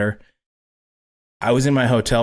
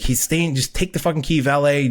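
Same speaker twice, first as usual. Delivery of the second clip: frazzled, higher-pitched retort; stressed out; 4 semitones higher than usual. Retold or imitated. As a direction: hurry the valet along in a retold rush. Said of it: "I'm stressed out".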